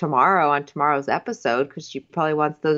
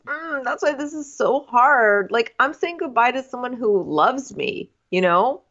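lightly hammed-up earnest guy; 5 semitones higher than usual. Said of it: "And he goes".

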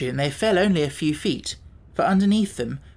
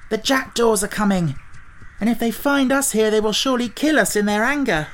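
higher, louder urgent warning; alarmed exclaiming; 6 semitones higher, 3 dB louder than usual. A narrator's reading. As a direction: cry out the danger. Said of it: "Tip exclaimed".

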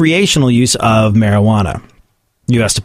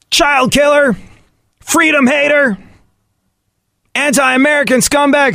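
much higher, shrill hammed-up name-calling; mock accuser; 13 semitones higher than usual. Gun debater insulting the other side, hammed-up outrage. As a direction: hurl the insults like an outraged partisan. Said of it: "Time to stop being like".

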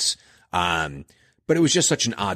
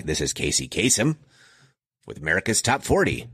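a light, understated radio DJ voice; a hint of Casey Kasem's countdown intro; Casey Kasem impression; 2 semitones lower, faster than usual. Host fondly imitating a childhood radio DJ, lightly voiced. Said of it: "That's probably a terrible accent".

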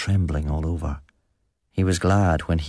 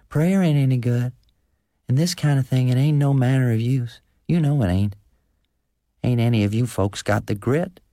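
high-pitched, insistent country woman; defiant farm wife; 6 semitones higher, 3 dB louder than usual. A narrator's reading. Wife intervening against talk of prayer, high and defiant. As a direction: cut in high and challenging.

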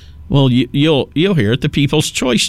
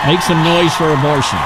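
sarcastic mimicry; 3 semitones higher than usual. Mocks the awards speech.

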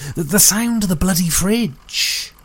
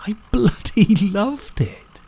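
slow, laughing through the words; 5 semitones higher, slower than usual. Acted. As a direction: let a delighted laugh break in. Same words repeated with a laugh.

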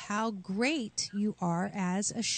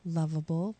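calm affirmation; 2 semitones lower, 3 dB quieter than usual. Shown as a demonstration. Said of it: "Repeat after me".

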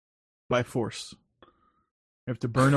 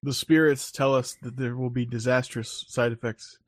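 fortune teller; 3 semitones lower, 4 dB quieter than usual. Pretend. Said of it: "don't mock my people".

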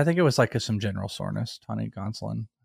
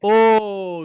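surprised high oh; 10 semitones higher, 7 dB louder than usual. Real, not acted. Pick stolen, reacts.

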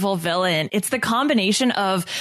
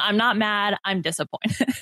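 classic disappointed parent. Retold or imitated. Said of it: "the classic".

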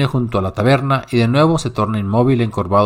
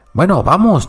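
higher, squealing impatience; shrill hunchback; 6 semitones higher than usual. Acted. Hunchback urging the driver on, shrill voice. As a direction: squeal to hurry the cab. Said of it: "chilla el jorobado".

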